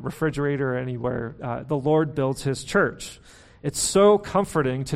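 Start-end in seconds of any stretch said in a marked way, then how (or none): 1.6-3.2 slow, deliberate, every word weighted; slow mantra. Shown as a demonstration. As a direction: set it down like a mantra to write down. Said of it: "a mantra that I've been preaching to myself".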